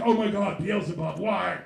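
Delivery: loud hammed-up panic; mock terrified shout. Comic voicing a frightened man, mock terrified shout. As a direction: cry out in comic horror. Man's terrified cry to Beelzebub.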